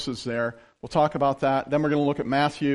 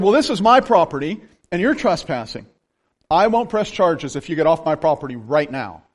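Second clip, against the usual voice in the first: firm, raised mock-authority voice; commanding landowner; 5 dB louder than usual. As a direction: lightly imitate a landowner ordering someone off. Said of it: "his authority just kinda knocked me over".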